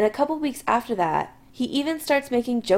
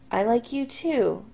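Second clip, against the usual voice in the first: warily; 3 semitones higher than usual. Acted. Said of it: "Adam says warily".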